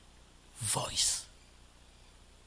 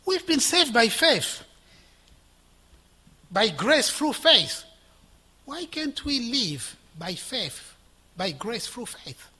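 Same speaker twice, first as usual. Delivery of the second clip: slow, weighted preaching; slow emphasis; 4 semitones higher, slower than usual. Real, not acted. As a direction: lay each phrase down slowly.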